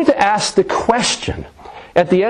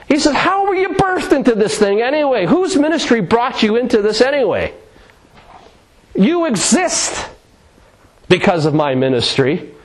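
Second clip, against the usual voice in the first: sarcastic scolding; 4 semitones higher than usual. Retold or imitated. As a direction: scold them with biting sarcasm, pitched up. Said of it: "the tone of voice that I think that Paul is using".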